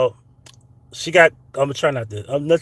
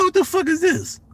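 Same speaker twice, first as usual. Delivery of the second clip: retold outrage. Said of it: "So I said".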